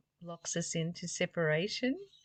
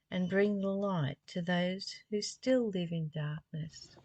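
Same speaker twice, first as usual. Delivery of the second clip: devotional reading. Acted. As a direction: read the passage as a tender address. Reads passage on forgiveness.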